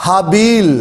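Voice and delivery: ہابیل with a long ee, haa-beel; ہابیل the Arabic way, stretched ee; Arabic pronunciation. Shown as a demonstration. Teacher gives viewers the Arabic ہابیل, long ee. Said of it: "عربی نے اس کا جو نام کا تلفظ دیا ہے".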